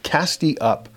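the second "cast ye up" climbs in pitch; rising call. Acted. The repeated call rises.

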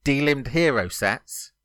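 measured chunks, left hanging for confirmation; three words at a time. Shown as a demonstration. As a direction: read it out in threes, pausing after each. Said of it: "I'll do it three words at a time".

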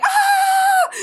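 very high, loud delighted shriek with a laugh; excited shriek. Retold or imitated. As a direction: squeal with joy at the surprise. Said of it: "I was like".

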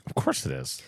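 low, quiet deadpan reply. Acted. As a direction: say it dead straight, very low. Deadpan joke defending caller.

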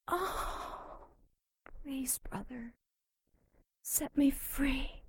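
put-on high breathy pleading young woman; terrified horror victim. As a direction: whimper like a frightened girl. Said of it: "take the form of a younger woman".

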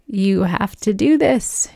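slow, breathy whispered plea to God; whispered prayer. Retold or imitated. Alone in her car, begging God in a whisper. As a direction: whisper it to God, slowly, pleading.

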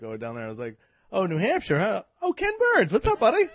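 host excitedly greeting Ken Burns from the stage; excited call-out. Retold or imitated. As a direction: spot the celebrity and shout to him. Retold shout to Ken Burns.

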